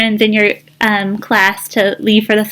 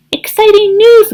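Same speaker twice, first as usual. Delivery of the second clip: excited; 12 semitones higher, 5 dB louder than usual. Acted. Duck's excited announcement.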